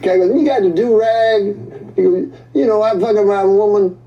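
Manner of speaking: animated stand-up voice. Acted. Stand-up bit in a performed voice.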